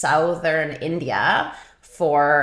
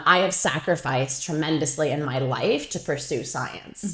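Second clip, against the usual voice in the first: mildly composed professor, quoted; retold calm mentor; 4 dB quieter than usual. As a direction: imitate a supervisor's calm seriousness. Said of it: "she very nicely and, um, calmly".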